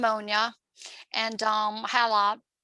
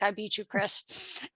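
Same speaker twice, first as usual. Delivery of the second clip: gloating; 2 semitones lower, 5 dB quieter, slower than usual. Retold or imitated. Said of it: "like to rub that in his face".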